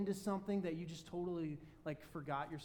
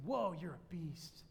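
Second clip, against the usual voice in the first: awkward compliment; slower than usual. Retold or imitated. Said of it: "I said".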